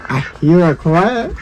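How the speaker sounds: low start, rising at the end; low-pitched, questioning lilt on "quack"; low listening voice. Pretend. Two takes while searching for bird.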